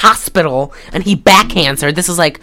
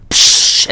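splash sound. Retold or imitated. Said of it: "It goes, like".

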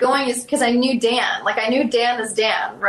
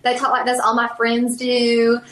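light South Carolina twang; easy, conversational Southern accent. Shown as a demonstration. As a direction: slip into a Southern accent, like folks back home. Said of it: "there is that Southern accent".

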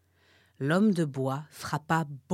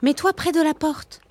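turtle voice; 10 semitones higher, 8 dB louder than usual. Acted. Turtle advises warthog.

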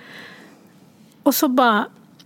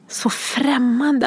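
near tears; much slower than usual. Real, not acted. Grieving daughter telling of her mother's funeral, near tears. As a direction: voice catching on the words, slow.

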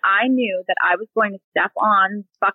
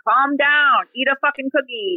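mock order, pitched up; higher-pitched self-imitation, mildly hammed-up; retold smart-ass outburst; 4 semitones higher than usual. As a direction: re-enact your sarcastic house-wide announcement. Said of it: "running around the house saying".

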